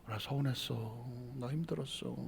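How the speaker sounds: very soft, low confession; hurt admission. Acted. Acknowledged spouse admitting hurt feelings, softly. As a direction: let the hurt out quietly, anger gone. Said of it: "알아주면 속으로 들어".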